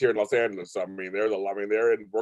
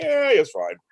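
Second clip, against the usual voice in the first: laid-back shrug; 8 semitones higher, slower than usual. Retold or imitated. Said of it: "and like".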